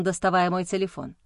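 ordinary delivery

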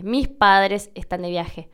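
slowly, the s of "Mis" breathed as h; aspirated s in mis. Shown as a demonstration. Repeating the example for learners, aspirated "Mis". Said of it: "yo aspire la última S".

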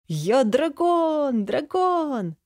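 put-on high, slow, ecstatic child's cry; joyful shout. A narrator's reading. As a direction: shout for joy. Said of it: "от его счастливого крика". (радостный крик)

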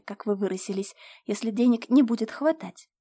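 ordinary delivery, nothing marked

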